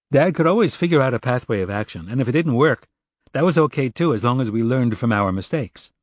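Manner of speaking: son defending dad. Acted. Narrator voices Jared defending his father.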